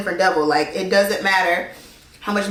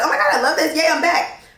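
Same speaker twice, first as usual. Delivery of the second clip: higher, giddy, laughing on yay; mock excited; 8 semitones higher than usual. Re-following a muted friend, giddy higher voice. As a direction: squeal it like a happy fan.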